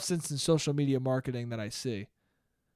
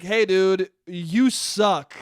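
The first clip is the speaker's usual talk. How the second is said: mock telling-off; 6 dB louder, much slower than usual. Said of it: "And you're like".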